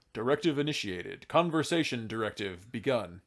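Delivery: dry robotic American announcement; lightly voiced blunt robot; blunt robot-dwarf. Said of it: "they talk like".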